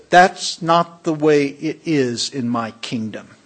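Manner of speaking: slow, deliberate quote with measured emphasis; clear, emphatic. Retold or imitated. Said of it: "He says it very clearly, very emphatically".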